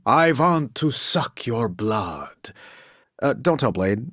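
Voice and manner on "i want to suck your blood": slow, drawn-out hammed-up vampire voice; mock vampire. Teasing a teammate in a campy vampire voice. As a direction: play a campy old-movie vampire for a laugh.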